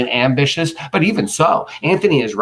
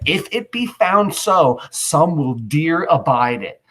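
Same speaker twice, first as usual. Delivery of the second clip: slow weighty reading; 3 semitones higher, slower than usual. Shown as a demonstration. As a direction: draw the line out with gravity. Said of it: "He said".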